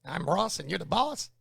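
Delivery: mock Texan, "boss" lifted high; upward sentence endings. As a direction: lift "boss" like a question. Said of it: "go up at the end of every sentence".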